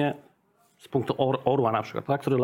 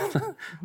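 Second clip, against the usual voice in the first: quick high burst of laughter; a brief self-conscious laugh; short laugh; 5 dB quieter than usual. Real, not acted. Laughs at own admission.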